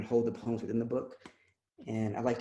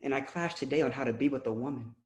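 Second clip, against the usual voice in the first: poem recital. Acted. Poet reciting a confessional poem to the audience, measured spoken word. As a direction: let each line land with weight.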